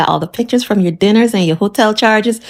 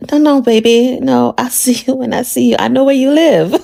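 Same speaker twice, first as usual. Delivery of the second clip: teasing husband; 5 semitones higher than usual. Retold or imitated. Voicing husband's flirty reply, laughing.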